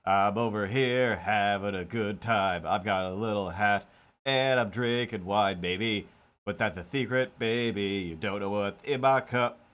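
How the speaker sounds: silly cat voice. Pretend. Pretend cat character rambling.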